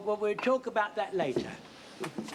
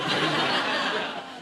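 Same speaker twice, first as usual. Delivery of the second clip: breathy embarrassed laugh; 4 dB louder than usual. Acted. Laughs off muddled metaphor.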